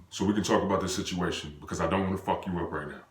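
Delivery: low, soft retold reasoning; calm, understated warning; calm, collected. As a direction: defuse it quietly. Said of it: "in a calm way".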